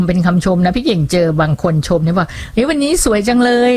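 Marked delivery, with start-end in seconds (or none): 2.4-3.7 sincere. Shown as a demonstration. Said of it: "ฟังแล้วดูแบบ จริงใจ".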